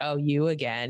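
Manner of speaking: normal talking voice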